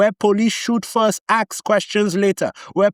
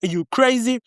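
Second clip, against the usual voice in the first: higher-pitched, mildly indignant protest; a touch of outrage, voice raised in pitch; pissed buyer; 5 semitones higher than usual. Acted. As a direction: act out a cheated buyer's disbelief, pitched up. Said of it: "And you pissed".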